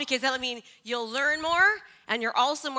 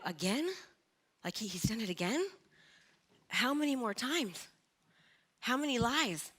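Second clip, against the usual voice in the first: stunned inner voice; 6 dB quieter than usual. Retold or imitated. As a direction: think it aloud, hurt and quiet. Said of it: "this loop goes through your head".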